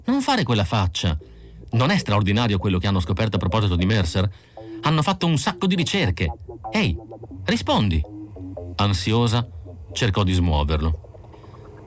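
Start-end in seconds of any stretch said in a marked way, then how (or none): 0.0-8.0 lightly voiced, quick and rising woman; Irmgard coaxing. Irmgard to silent Isidor, coaxing. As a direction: pester him to answer.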